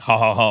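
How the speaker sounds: spelled-out mock "ha, ha, ha"; imitated laugh. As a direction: act out someone else's laugh. Imitates the man's reluctant laugh.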